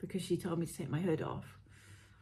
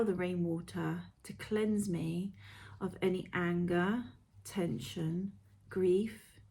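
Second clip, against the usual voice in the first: guided meditation. Acted. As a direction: read it like a gentle guided visualisation.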